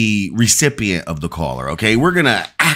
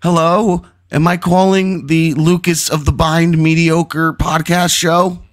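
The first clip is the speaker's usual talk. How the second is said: 1 light prank caller; 6 semitones higher than usual. Acted.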